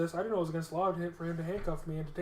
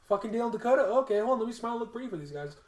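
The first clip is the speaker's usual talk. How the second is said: relieved excitement; 5 semitones higher, 4 dB louder, faster than usual. Retold or imitated. Recognizes the clerks, relieved.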